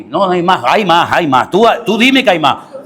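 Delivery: lightly mocked priest pressing for sins; insistent priest. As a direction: keep badgering, rising on the final demand. Acted priest demanding more sins. (cura insistente, en tono de parodia)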